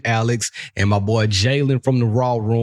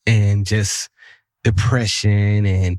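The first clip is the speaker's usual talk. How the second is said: imitating her heavy tone; 5 semitones lower, slower than usual. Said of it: "Why you gotta say it like that?".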